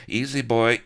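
loud, high cry to hold him off; loud cry of alarm; cried out. A narrator's reading. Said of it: "she cried".

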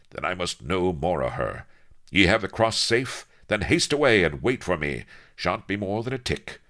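lightly voiced brisk hero. Avery sending his companion off to wait, brisk. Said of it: "quo he briskly".

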